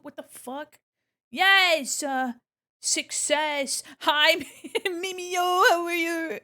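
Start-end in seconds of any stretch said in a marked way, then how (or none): 1.3-3.8 loud, high victory cry; triumphant. Real, not acted. Celebrates success. 4.0-6.4 loud, high, drawn-out hello; squealed, slow hello; excited greeting. Real, not acted.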